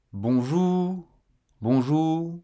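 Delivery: Bonjour with no final R, ending open on ou; R dropped on purpose. Shown as a demonstration. Teacher deliberately leaving out the R. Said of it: "je fais exprès, je ne prononce pas le R".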